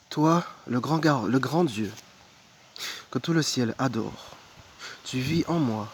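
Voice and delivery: measured recitation, phrases starting up and falling away; devotional poem reading. Acted. Reading Thérèse de Lisieux's love poems to viewers, devotional recitation. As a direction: read it as a prayer, pausing between lines.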